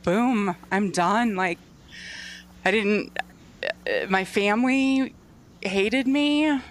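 fighting back tears while talking; crying. Real, not acted. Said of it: "Sorry, I'm crying now".

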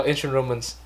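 ancient Romans said slowly and clearly; slow clear model. Shown as a demonstration. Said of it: "Ba từ cuối em không nghe thấy". (đọc chậm rõ ancient Romans)

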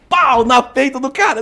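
loud, high, drawn-out hit; explosive impact. Retold or imitated. Teller re-enacting the two-footed kick, explosive. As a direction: punch out the blow as sound effect.

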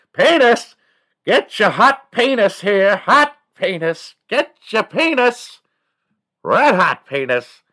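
very high, loud, slow hawker yell; loud vendor call. Retold or imitated. Kid yelling to the stadium crowd, loud vendor-style call. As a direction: holler it to the whole stadium like a vendor. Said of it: "say penis really loud".

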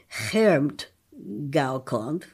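Chermtgaukonf with the ch as a breathy h, slowly. Shown as a demonstration. Linguist showing a listener the ch said as h. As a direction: sound the ch in Chermtgaukonf like an h. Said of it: "pronounce the ch with a h".

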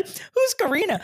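puzzled high question. Retold or imitated. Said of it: "I was like".

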